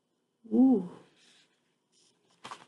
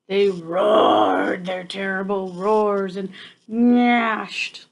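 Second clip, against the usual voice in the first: dramatic storybook reading. Acted. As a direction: drag out each terrible to build suspense. Dramatic reading of wild things.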